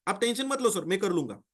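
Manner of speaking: imitating an eager seller who begs the senior not to push; mock pleading. Salesman begs his senior not to push the client, in mock pleading. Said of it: "बहुत सारे लोग बोलते हैं".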